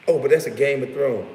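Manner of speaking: high, loud mimicry; mocking excuse. Streamer quoting his opponents' excuse, in a high mocking voice.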